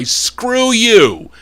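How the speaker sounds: sudden high, angry snap at the critics; real angry outburst. Real, not acted. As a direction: lash out, fed up and furious. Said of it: "I'm sorry to be upset".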